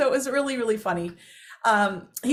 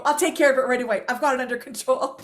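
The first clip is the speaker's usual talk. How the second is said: taking charge; 2 semitones higher, 3 dB louder, faster than usual. Retold or imitated. Mom rushes off to handle it.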